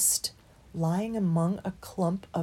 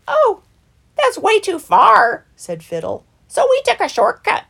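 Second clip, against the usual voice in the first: weasel voice; 13 semitones higher, 12 dB louder than usual. Acted. Weasel Fiddle answers.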